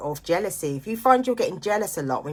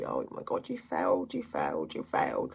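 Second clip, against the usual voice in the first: whispered self-blame, dropping lower and lower; harsh inner voice; 12 semitones lower, 6 dB quieter than usual. Retold or imitated. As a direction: hiss it at yourself like a cruel inner critic. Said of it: "I was like".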